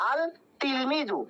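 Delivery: আল তিলমিজু with the lam pronounced; unassimilated article. Shown as a demonstration. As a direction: clear L in আল, before তিলমিজু. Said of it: "আমাদের হওয়ার কথা ছিল".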